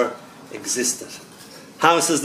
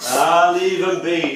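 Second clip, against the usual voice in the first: slow, drawn-out hushing; shushing; 3 semitones higher, slower than usual. Acted. Familiar tree defending the returning poet, slow shushing. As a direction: shush them slowly. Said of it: "shushed the familiar tree".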